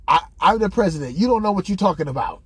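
fast, indignant mock retort; pissed off. Comic imitating the president pulling rank, pissed off. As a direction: rattle it off as an affronted boss. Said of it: "He was pissed off".

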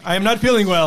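drunken Eric imitation. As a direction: imitate a drunk calling his mom. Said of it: "when Eric gets drunk at the bar".

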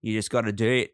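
casual put-on Aussie; Australian accent. Friend insisting on the voice, Australian accent. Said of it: "you have to do the Australian accent".

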